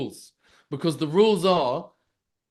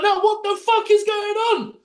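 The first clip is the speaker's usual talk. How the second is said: retold outburst; 13 semitones higher, 4 dB louder than usual. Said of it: "and I'm like".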